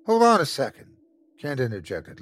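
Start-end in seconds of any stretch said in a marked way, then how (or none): 0.1-1.0 raised voice cutting in; calling out. Acted. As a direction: stop them with a loud call. Kent interrupting loudly.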